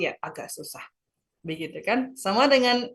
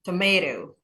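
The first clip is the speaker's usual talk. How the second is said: tomato as to-MAY-to; tomato, weight on the middle syllable; stress on second syllable; slower than usual. Shown as a demonstration. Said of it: "penekanannya di suku kata kedua".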